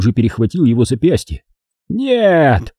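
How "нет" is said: higher, horrified shout of no; terrified cry. Acted. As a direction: cry out in horror. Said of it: "закричал он с искажённым от ужаса лицом".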